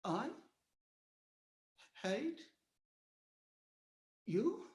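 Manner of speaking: very soft, halting and wounded; barely able to say it; hurt disbelief. Retold or imitated. Mother to son, very soft hurt question.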